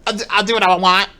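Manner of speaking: high, loud, laughing mimicry of a petulant brat; mocking Phil. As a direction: parrot his line back in a whiny, giggling voice. Mocking Phil's own defiant line.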